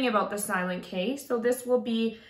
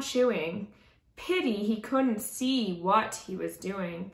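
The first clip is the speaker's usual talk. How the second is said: lilting rhyming storybook reading; story narration. A narrator's reading. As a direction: read it aloud to children with expressive rhythm. Reads a rhyming picture book aloud.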